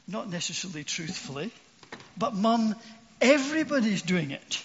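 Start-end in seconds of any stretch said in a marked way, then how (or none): 2.2-4.6 put-on whiny kid begging his mum, higher and louder; mock childish plea to mum; pleading child. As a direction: wheedle like a boy wanting his way.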